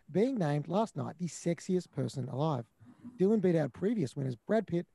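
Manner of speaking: flat, even screen-reader voice; Jaws robot voice. Pretend. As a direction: read it like text-to-speech. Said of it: "I am the Jaws, the robot voice".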